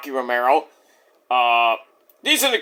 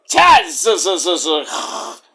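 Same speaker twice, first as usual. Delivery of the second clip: drawn-out announcer name. Pretend. Introducing commentator with drawn-out name.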